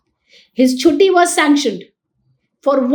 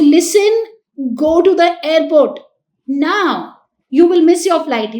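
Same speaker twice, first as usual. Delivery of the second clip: raised, emphatic parental urging; urgent retold order; 3 semitones higher than usual. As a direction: press the order on your child, firmly. Urgent parent on retold phone call.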